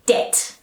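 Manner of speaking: "debt" said as "det", no b; whisper-light "debt" with a silent b. Shown as a demonstration. Teacher modelling the right way, silent b. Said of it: "silent B sound".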